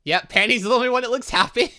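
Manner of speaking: ordinary delivery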